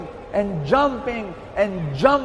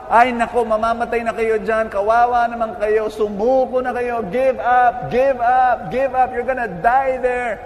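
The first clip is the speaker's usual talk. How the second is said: mildly raised mock shouts; retold shouting; 3 dB louder than usual. Other frogs telling the trapped two to give up, retold shouting. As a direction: shout discouragement in imitation of a crowd. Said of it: "they started shouting to the two frogs".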